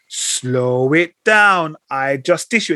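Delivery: put-on slow, stretched-out American accent; imitating a rapper's slow American-accent tag line; drawled American catchphrase. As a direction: drag out each word in a mock American accent. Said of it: "when he went into American accent".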